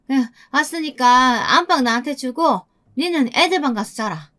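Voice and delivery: mother-in-law announcing she's moving in, lightly voiced; a hint of a pushy, dialect-speaking mother-in-law; brazen mother-in-law, casual. Mother-in-law claiming the main bedroom from her daughter-in-law, lightly voiced and brazen.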